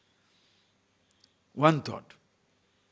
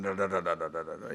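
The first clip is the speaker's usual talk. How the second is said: low rapid "da-da-da" gunfire; machine-gun rattle; 10 semitones lower, 6 dB quieter than usual. Retold or imitated. Speaker likening the Swami's scolding to gunfire, mock machine-gun rattle. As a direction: imitate an AK forty-seven firing. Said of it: "A K forty-seven".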